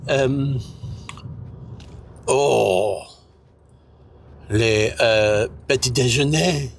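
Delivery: mock French accent, slowly. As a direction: ham up a fake French speaker. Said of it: "Why is he talking French".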